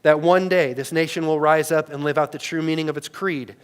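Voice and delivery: loud, ringing speech quotation; Martin Luther King. Retold or imitated. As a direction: declaim it like a great orator. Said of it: "like he said in that great speech".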